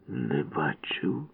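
slow whispered with a sigh; mock rueful sigh. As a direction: fake sorrow. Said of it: "зітхнувши скрушно". (удаване скрушне зітхання)

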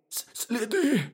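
high, stammering hare; high little animal voice; nervous hare. A narrator's reading. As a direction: stutter the first sound as a small hare. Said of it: "сказав заєць".

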